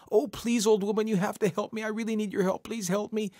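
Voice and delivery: high, hurried pleading; whining high plea for help; desperate begging. Acted. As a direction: beg without letting up. Coyote begs the old woman.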